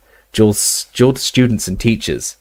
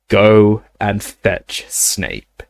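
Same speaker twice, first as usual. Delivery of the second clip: slow menacing command; cold dark lord; much slower than usual. Acted. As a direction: give the order slowly, coldly. Voldemort gives an order.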